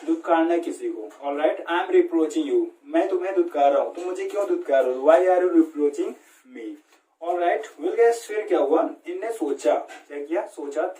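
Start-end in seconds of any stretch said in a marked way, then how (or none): 1.6-2.7 slow example. Shown as a demonstration. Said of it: "रिप्रोच means क्या होता है". 5.1-6.7 slow example. Shown as a demonstration. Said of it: "रिप्रोच means क्या होता है".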